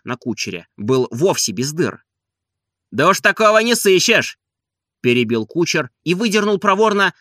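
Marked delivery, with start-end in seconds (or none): 2.9-4.4 high, loud, jeering coachman; cheeky coachman. A narrator's reading. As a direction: needle the old man, pitched high and loud. Coachman mocking.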